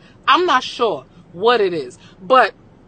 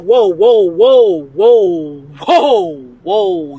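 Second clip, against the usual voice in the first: loud then suddenly hushed; 9 dB louder, much slower than usual. Retold or imitated. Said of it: "I'm like".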